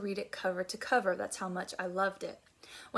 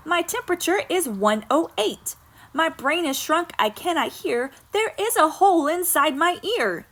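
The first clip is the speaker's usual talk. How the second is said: put-on louder, whiny child listing every ailment; sick child complaining; 7 semitones higher, 11 dB louder than usual. Peggy pleading with her parent to skip school, louder hammed-up whine. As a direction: ham up a kid faking sickness. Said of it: "said little Peggy Ann McKay".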